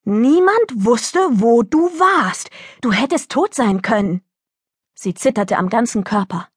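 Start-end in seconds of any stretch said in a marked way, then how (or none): 0.0-4.2 angry bellow. Acted. Worried mother scolding her runaway daughter, understated bellow. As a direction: hammer it out in worried anger, without a full shout. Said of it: "brüllte sie".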